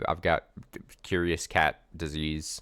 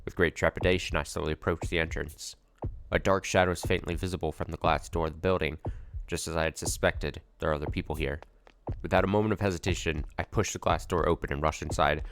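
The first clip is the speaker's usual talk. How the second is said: steady first-person novel read; measured storyteller read; story narration. A narrator's reading. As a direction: narrate the scene evenly, drawing the listener in. Reads visual novel narration.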